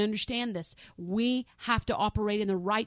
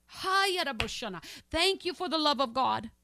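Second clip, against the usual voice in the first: slow prayerful thanks; 2 semitones higher, much slower than usual. Real, not acted. Tongues then slow thanks.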